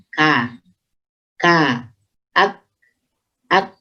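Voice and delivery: "ak" ending in a light whispered release; hams kaf. Shown as a demonstration. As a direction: let a puff follow the k in "ak". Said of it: "lirihnya suara itu".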